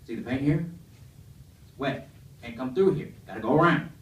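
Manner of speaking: loud, bossy redneck voice; redneck scolding. Retold or imitated. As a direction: lay down the law on the wet paint. Redneck explains wet paint.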